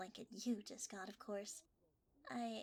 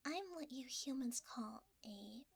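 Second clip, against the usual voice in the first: creepy reveal whisper. Acted. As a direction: let the secret out in a hush.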